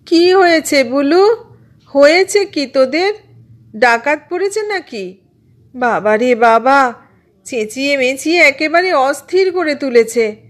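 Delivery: exasperated high-pitched holler; yelling out. A narrator's reading. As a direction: call out crossly to the next room. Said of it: "শুয়ে শুয়েই চেঁচিয়ে উঠল". (বিরক্ত হয়ে চেঁচিয়ে ওঠা)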